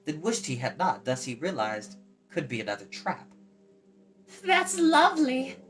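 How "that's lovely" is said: put-on high, slow delighted girl's voice; gay girl. Eilonwy gaily greets Tarn, high and pleased. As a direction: savor it gaily like a young girl. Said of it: "Eilonwy said gaily".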